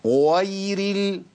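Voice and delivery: غير with overdone jaw and lip effort, slow; exaggerated strained demo. Shown as a demonstration. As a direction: show the strained, forced غير. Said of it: "بص كده".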